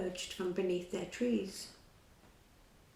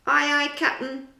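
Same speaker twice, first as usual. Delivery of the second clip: louder, higher rough pirate shout; a sailor answering his captain; pirate reply; 7 semitones higher, 9 dB louder than usual. A narrator's reading. A pirate answers Captain Hook loudly.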